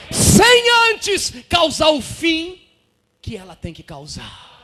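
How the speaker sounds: high, slow, loud shout; preaching shout. Real, not acted. Preacher proclaiming to the congregation, slow loud shout. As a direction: stretch it out and shout.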